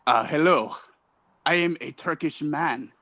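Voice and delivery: stiff, halting attempt at Turkish accent; lightly done, deadpan Turkish-man accent; bad Turkish accent. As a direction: introduce yourself in a faint Turkish accent. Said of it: "I can do a Turkish man".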